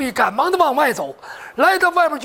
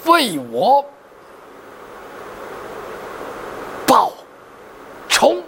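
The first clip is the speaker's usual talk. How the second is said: broken, halting words with long gaps; last dying words; 9 semitones lower than usual. Acted. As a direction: gasp out a final plea word by word. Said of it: "说完这句话，绝气而亡". (断气前一字一顿地嘱托)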